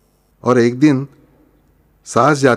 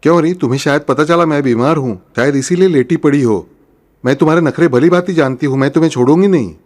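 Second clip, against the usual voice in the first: angry mother-in-law; 2 semitones higher than usual. Acted. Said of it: "सास को गुस्सा आता है".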